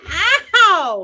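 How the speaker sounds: sudden sharp cry of pain; yelp of pain. Real, not acted. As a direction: yelp as toes get hurt. That's my toes.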